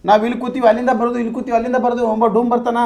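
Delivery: agitated complaint. Acted. Villager pestered since morning tells of the haunting, agitated.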